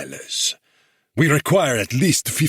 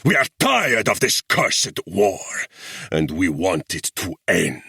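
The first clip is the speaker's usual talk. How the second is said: high, loud, slow furious tirade; thundering rage; 3 semitones higher, 3 dB louder, slower than usual. A narrator's reading. Guerrilla chief rages at the English officer, thundering. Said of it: "he thundered".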